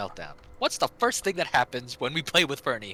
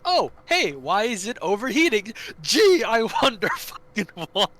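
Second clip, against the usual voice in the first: high, loud mock-innocent sarcasm; sarcastic mimicry; 8 semitones higher, 6 dB louder than usual. Telling friends how Fernie sounded, high sarcastic mimicry. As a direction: play dumb, then twist it sarcastically. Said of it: "So he's like".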